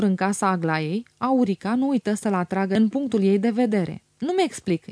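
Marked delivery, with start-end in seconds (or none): 4.2-4.9 insinuating. A narrator's reading. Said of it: "insinuă ea".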